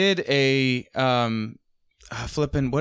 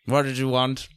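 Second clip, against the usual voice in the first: lightly voiced drunk English butler, a touch grumpy; half-sloshed butler, close to own voice; old drunk English butler; 3 semitones lower than usual. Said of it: "it just sounds like a old drunk English butler is what I'm going for".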